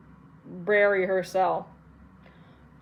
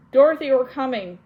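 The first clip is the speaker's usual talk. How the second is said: a raised, higher shout of rescue; shriek; 5 semitones higher, 8 dB louder than usual. A narrator's reading. Lear shouting to Dorothy from below that help is coming, a raised shout. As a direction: call out loud and high. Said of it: "and Lear shrieked".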